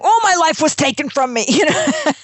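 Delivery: high-pitched, hammed-up woe-is-me; mock lament. Speaker jokes about explaining to keynote speaker, mock lament. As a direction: play the tragic victim for laughs.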